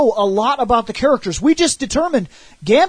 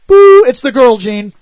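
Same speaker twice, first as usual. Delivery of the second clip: loud, mock-startled "Boo"; mock alarm; 9 dB louder than usual. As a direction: shout it like a fake jump scare. Mocking telepath alarm.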